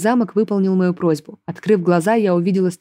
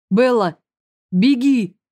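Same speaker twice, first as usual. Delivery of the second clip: higher-pitched urgent call, not full volume; understated narrated shout; urgent cry; 4 semitones higher, slower than usual. A narrator's reading. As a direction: call out a warning. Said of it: "крикнул Конрад".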